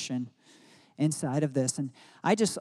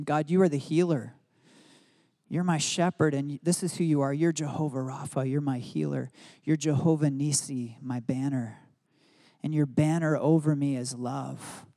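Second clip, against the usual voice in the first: earnest prayer. Shown as a demonstration. Voices his own prayer.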